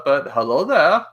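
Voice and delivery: amateur British "hello there"; mock English greeting; bad English accent. Shown as a demonstration. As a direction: try a clumsy English accent. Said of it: "So I horribly bad accent".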